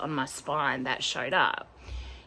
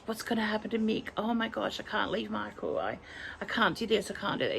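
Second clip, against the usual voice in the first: higher, softer worried rush; retold panic; 5 semitones higher, 4 dB quieter, faster than usual. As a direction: replay your own catastrophizing in a small voice. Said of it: "I just catastrophized".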